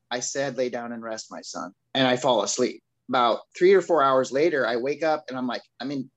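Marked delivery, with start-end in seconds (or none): 0.6-1.7 small still voice. Retold or imitated. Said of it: "this small, still voice again".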